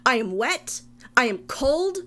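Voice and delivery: fed up and ranting at the monster; indignant rant. Acted. Character ranting at beast.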